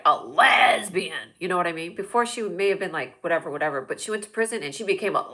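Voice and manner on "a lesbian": LESBIAN with a long stretched first syllable; emphatic label. Acted. Describing cousin after prison, heavily drawn-out LESBIAN. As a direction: lean hard and long on the start of LESBIAN. Repeats word with heavy emphasis.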